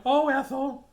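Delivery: mock exasperation.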